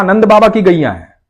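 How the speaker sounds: sweetly persuading him to stay; child's voice. A narrator's reading. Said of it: "तो बच्चे ने कहा".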